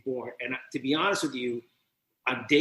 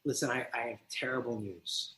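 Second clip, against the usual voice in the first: grave news; 4 semitones lower, 12 dB quieter than usual. Retold or imitated. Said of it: "And I tell her".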